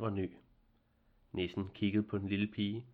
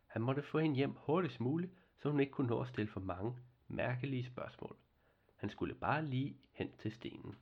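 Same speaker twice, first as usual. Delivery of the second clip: ordinary delivery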